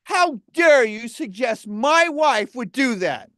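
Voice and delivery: slow, emphatic indignation; mock outrage. Husband defending his wife to a partner, indignant. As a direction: draw out the offended rebuke word by word.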